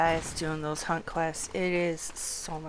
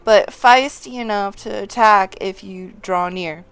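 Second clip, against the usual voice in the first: hearty, louder quest giver reading to the youngling; 5 semitones higher, 9 dB louder than usual. Acted. Old townsman sending the youngling beyond the walls, hearty and loud.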